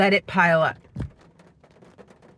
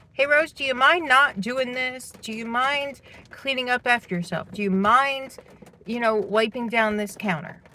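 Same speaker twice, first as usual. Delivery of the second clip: higher-pitched, careful polite asking, easing down toward the end; polite request; 5 semitones higher than usual. Retold or imitated. Speaker showing how they asked housemate to clean up, politely. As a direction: ask nicely, as a mild recurring request. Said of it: "That is the tone I would say it in".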